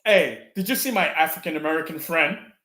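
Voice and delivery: put-on white-guy voice; lightly mocking white-friend impression. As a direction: imitate a white friend talking. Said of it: "Can you picture your white friend talking".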